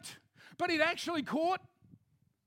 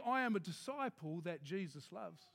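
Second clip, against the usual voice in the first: congregation recital; 8 semitones lower, 8 dB quieter than usual. Acted. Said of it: "Say it with me".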